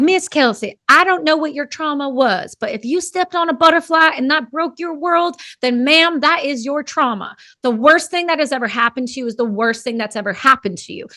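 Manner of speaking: a light Southern accent imitating a friend; lightly voiced Southern buddy being kind but blunt; a hint of a Southern accent, telling a friend off gently; Southern drawl impression. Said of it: "real Southern, and he talks to me like this".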